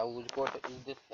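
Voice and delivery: "Whose coat is this?" drawn out word by word, very slowly; slow classroom read of "Whose coat is this?". Shown as a demonstration. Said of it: "ऐसे question किया गया".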